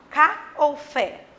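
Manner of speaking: slow "Cá" and "fé" set apart, the syllables weighed against each other; deliberate, slow teacher's comparison of "Cá" and "fé"; stressed syllable contrast. Shown as a demonstration. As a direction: separate "Cá" from "fé" with a pause, testing which is stronger. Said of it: "Qual eu falo mais alto?".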